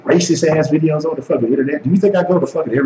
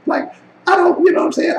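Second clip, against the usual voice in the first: much higher shout; real outburst. Real, not acted. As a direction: shout it out, exasperated. Ranting about YouTube money.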